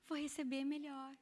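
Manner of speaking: slow, mock-gentle coaxing; milder tone. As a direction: ease into a mild, placating tone. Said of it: "um tom de voz mais ameno".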